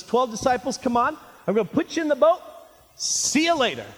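lightly played Jesus shooing his friends along; breezy Jesus. Acts out Jesus dismissing disciples.

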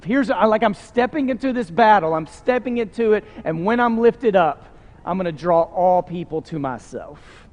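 imitating a confident declaration; confidence. Preacher voices Jesus stepping into battle, confident. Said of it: "turns into this confidence Jesus had".

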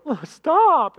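high, loud mock wail; pleading Pharaoh. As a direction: beg it to stop, hammed up. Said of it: "Pharaoh would go".

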